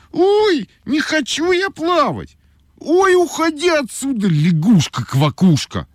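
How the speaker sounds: put-on high whiny girl voice; a fussy little girl crying out; capricious girl shouting. A narrator's reading. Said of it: "крикнула Ойка".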